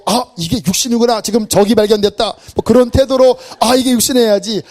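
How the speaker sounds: braced, combative recognition; ready to fight. Shown as a demonstration. Preacher demos a combative attitude toward temptation. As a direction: say it like spotting an enemy. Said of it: "싸우려고 하는 태도로".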